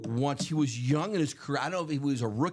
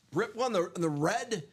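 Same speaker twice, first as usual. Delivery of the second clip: hoarse, strained voice; worn-out hoarse voice; losing voice; 2 semitones higher than usual. Real, not acted. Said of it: "I'm really losing my voice".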